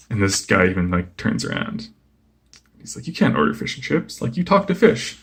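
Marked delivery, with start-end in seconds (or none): 3.1-5.2 higher-pitched, incredulous retelling; lightly acted incredulity; mock disbelief. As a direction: imitate a baffled diner challenging him. Stunned diner challenges Aquaman's order.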